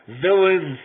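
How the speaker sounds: piercing high scream of Villains; shrieked. Acted. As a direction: shriek it at the officers. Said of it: "I shrieked".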